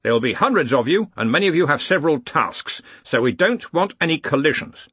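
commanding, lifted voice. A narrator's reading. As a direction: address the whole hall with authority. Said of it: "He raised his voice".

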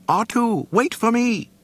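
very high, loud cry; panicked call. A narrator's reading. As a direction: shout anxiously after a friend. Droid calling after companion.

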